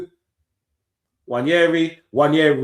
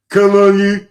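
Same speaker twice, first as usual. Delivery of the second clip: loud outburst; 7 semitones higher, 12 dB louder than usual. Real, not acted. Irritated by rival fan.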